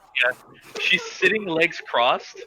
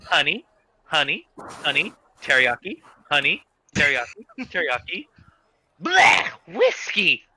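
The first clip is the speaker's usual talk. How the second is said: tasting potions, naming each; 5 dB louder than usual. Acted. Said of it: "she goes".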